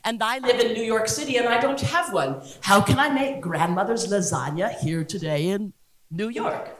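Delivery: mock Italian accent, lightly done; Giada. Cooking-show host missing her grater, light mock Italian accent. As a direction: plead the problem in a hint of Italian accent. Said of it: "bad Italian accent when I'm imitating her".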